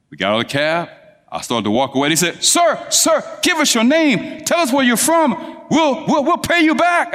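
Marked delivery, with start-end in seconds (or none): 2.4-7.1 high, urgent calling after him; pleading young women. Retold or imitated. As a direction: beg him to stop so you can repay.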